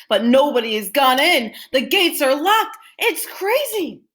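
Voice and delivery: high loud crowd outrage; shouted. A narrator's reading. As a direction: protest that it makes no sense. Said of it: "the people shouted".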